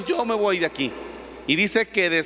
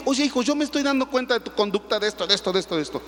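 scolding father; 4 semitones higher, faster than usual. Retold or imitated.

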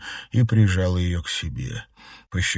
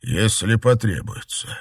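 loud, higher cold tyrant; dark lord; 4 semitones higher, 7 dB louder than usual. A narrator's reading. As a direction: blame her coldly. Emperor threatens.

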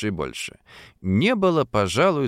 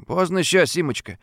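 gloomy tone; 6 semitones higher than usual. A narrator's reading. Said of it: "мрачноватым тоном".

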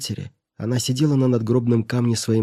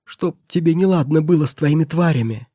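higher, louder cursing; angry curse; 5 semitones higher, 3 dB louder than usual. Acted. Mother curses her brother, shouting. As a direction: hurl the curse at him. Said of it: "закричала она".

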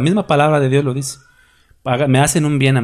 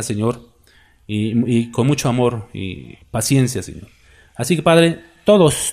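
fervent closing prayer, Señor at phrase ends; earnest prayer. Acted. Pastor praying for his congregation, earnest prayer voice. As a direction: pray over the congregation with devotion.

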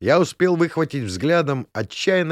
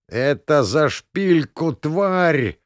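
croaking; 3 semitones higher, much slower than usual. Acted. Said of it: "успел каркнуть я".

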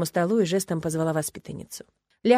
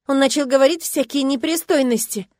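higher, louder hurt outburst; upset outburst; 7 semitones higher, 6 dB louder than usual. A narrator's reading. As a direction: force it out through embarrassment. Girl recounting. (обиженный возглас)

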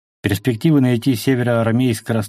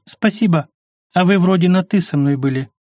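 quick, high, joyful thanks; quick happy thanks; 7 semitones higher than usual. A narrator's reading. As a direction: blurt it out gladly. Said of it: "ускоренное радостное". (быстро и радостно)

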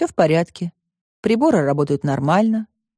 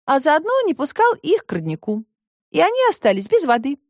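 put-on higher girl's voice, reproachful; girl Alice; 7 semitones higher than usual. A narrator's reading. Alice reproaches the robot, higher girl's voice. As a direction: point out the harm as a girl.

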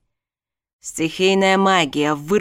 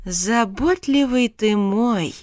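sarcastic; 4 semitones higher, slower than usual. Acted. Alexia sarcastic to husband.

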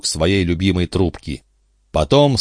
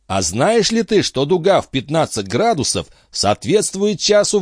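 higher, eager quizzing captain voice; a high-voiced captain grilling his friend; excitable old sea captain; 7 semitones higher than usual. A narrator's reading. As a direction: press him like a fussy old skipper. Antifer quizzing Tregomen.

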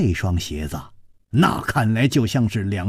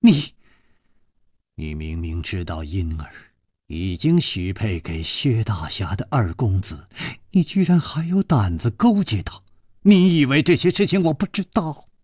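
angrier; 5 semitones lower than usual. Acted. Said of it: "这个女子更愤怒地说".

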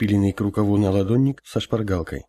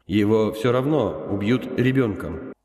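steely; slower than usual. Acted. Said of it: "В голосе старца лязгнул металл".

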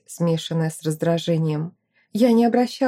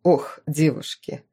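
sighing; 5 semitones lower than usual. A narrator's reading. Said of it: "вздохнул его светлость".

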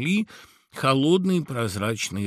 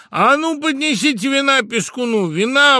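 high, loud commanding call; Tamada exclaiming; 8 dB louder than usual. Acted. Tamada loudly orders wine for the mouse. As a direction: demand wine for the guest. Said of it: "воскликнул Тамада".

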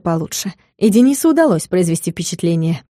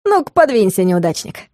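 cheerful command. Acted. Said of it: "весело велел Алекс".

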